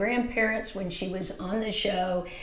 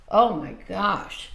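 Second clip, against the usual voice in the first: ordinary talk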